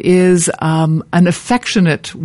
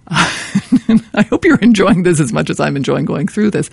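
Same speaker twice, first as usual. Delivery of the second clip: laughing; 2 semitones higher than usual. Real, not acted. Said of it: "laughs while talking".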